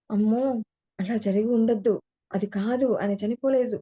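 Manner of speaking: a mild mock yell of disbelief; retold shout. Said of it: "గట్టిగా అరిచిందంట".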